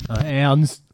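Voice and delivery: backwards speech. Pretend. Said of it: "Arrête de parler à l'envers".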